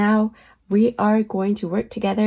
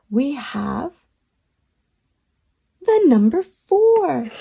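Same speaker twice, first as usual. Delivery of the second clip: put-on kids show host. Kids show host counting and reveals.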